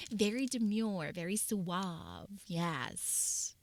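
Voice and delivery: slow low demure voice. Pretend. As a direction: try to sound suave and mature. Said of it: "I have to sound mature".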